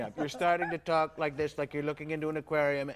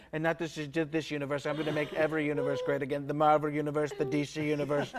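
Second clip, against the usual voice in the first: lightly voiced boastful Trump; Trump impression. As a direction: brag big about making everything great.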